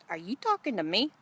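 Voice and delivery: put-on a light Brooklyn accent; joking tough Brooklyn comeback. Woman at the well answering Jesus, light Brooklyn accent. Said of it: "not with the Brooklyn accent".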